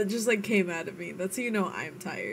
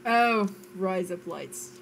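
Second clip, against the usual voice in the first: put-on Scottish accent. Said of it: "Scottish phrases".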